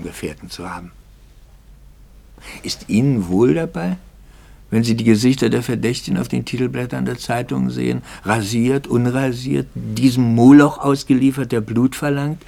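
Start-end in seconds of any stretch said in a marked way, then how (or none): 2.6-12.4 höher und lauter, empört anklagend; wütend die Frage hinausschleudern. Acted. Empörte Anklage des Pfarrers. (erregte Anklage gegen die Presse)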